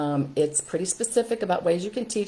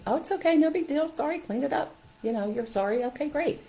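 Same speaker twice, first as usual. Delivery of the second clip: easygoing reassurance; 9 semitones higher than usual. Acted. Acting easy apology for spilled milk.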